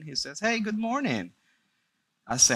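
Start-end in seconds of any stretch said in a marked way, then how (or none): 0.4-1.3 high, lilting imitation of an uncle's hello; casual morning greeting. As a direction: greet as if nothing is wrong. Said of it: "just like any other morning".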